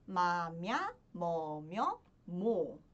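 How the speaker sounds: low "Ma, mya" pairs, each sweeping upward; sing-song count along the vowel table; syllable drill. Shown as a demonstration. Teacher counting along the row to find mo, syllable drill.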